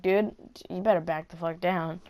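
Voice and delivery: a threat kept under the voice; unspoken retort. Retold or imitated. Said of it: "In my head".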